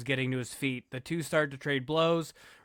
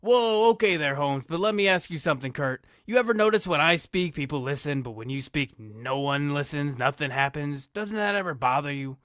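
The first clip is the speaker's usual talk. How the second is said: put-on Chicano accent. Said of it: "Eddie says".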